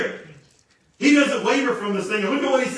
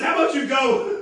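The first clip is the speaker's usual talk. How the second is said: sassy attitude; 6 semitones higher, 3 dB louder than usual. Retold or imitated. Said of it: "You gotta love his attitude".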